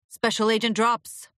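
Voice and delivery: put-on gruff old agent calling through door; scratchy shout. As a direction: bark it with a scratchy rasp. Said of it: "Furlong shouted in his scratchy voice".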